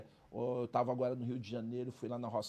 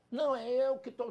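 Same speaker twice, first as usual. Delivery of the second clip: mimicking a flustered pastor, pitched up and louder; a hint of a defensive pastor; mock pastor; 9 semitones higher, 6 dB louder than usual. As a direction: scoff as the unsure pastor. Mocking stammering pastor.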